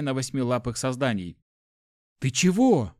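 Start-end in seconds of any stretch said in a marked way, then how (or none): 2.2-2.9 loud, higher startled question; incredulous. A narrator's reading. Hero to balking companion, incredulous. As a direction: fire it back in disbelief.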